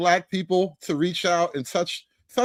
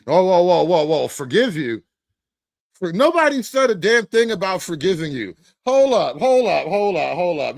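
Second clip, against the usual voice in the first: indignant objection; 4 dB louder than usual. Acted. Objects to being asked forgiveness.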